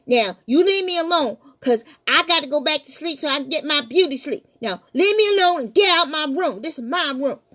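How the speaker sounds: nervous boy pretending to be brave; scared stammer. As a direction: bluff through the fear. Terrified boy denies fear.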